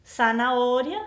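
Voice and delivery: "zanahoria" starting with a clear s. Shown as a demonstration. Teacher modelling the word for students: z as s. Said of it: "Vamos a pronunciar la Z como S".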